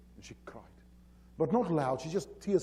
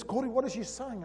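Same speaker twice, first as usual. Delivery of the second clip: high-pitched puzzled question; retold bewilderment; 10 semitones higher, 4 dB louder than usual. Boss who can't understand Afrikaans asking Corey, mildly bewildered. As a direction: imitate someone lost, needing a translation. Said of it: "Mister Drummond can't understand that".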